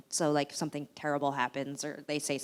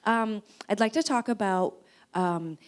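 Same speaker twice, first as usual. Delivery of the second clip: clueless interviewer; 2 semitones higher, 3 dB louder, slower than usual. Retold or imitated. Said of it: "imagine this in a British accent".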